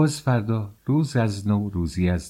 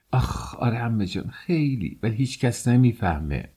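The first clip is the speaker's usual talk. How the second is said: longing sigh; 3 semitones higher than usual. Acted. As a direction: breathe it out, lovesick. Girl confesses love longingly. (دختر عاشق، با آهی آرام و مشتاق)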